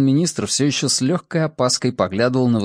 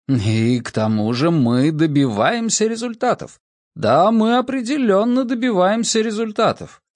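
rising into high-pitched, emphatic conviction; infectious enthusiasm; 8 semitones higher than usual. A narrator's reading. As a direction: build to an eager, insistent affirmation. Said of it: "Его энтузиазм был заразителен".

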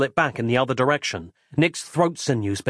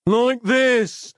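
snapped; 11 semitones higher, 4 dB louder than usual. Acted. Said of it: "snapped Persephone".

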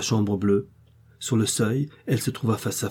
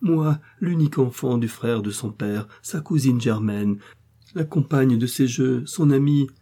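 supplication; 4 semitones higher than usual. Acted. Pleading cousin's plea builds.

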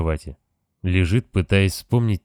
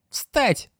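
creaky ghost voice. Acted. Ghost commanding the sleeper.

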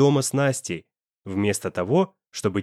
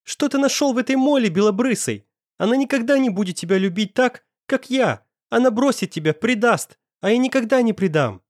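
hysterical tearful scream; 10 semitones higher than usual. A narrator's reading. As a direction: shriek it through sudden tears. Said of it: "Истерично закричала она". (истеричный крик сквозь слёзы)

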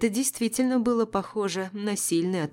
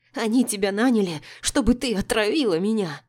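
raised accusing voice; angry accusation; 3 semitones higher, 4 dB louder than usual. A narrator's reading. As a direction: hurl the blame at her. Empress accuses narrator. (гневное обвинение)

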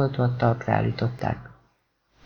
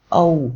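cry of pain; 2 semitones higher, 5 dB louder than usual. Acted. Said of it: "kiáltotta Nathan".

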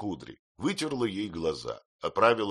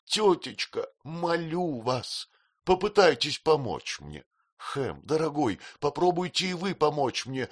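high, desperate tearful plea, slowing at the end; tearful outcry; 7 semitones higher than usual. Acted. Girl begging her aunt and friends for help, high and desperate. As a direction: beg them all for help, near breaking. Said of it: "закричала".

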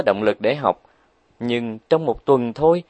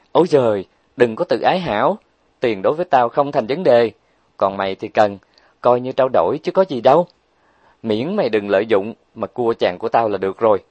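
dismissive Huệ Linh. Acted. Huệ Linh brushing off friend's pride.

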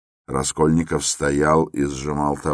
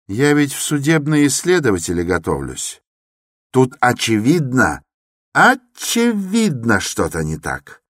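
heated exclamation; 8 semitones higher, 3 dB louder than usual. Acted. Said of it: "горячо вскричал молодой человек".

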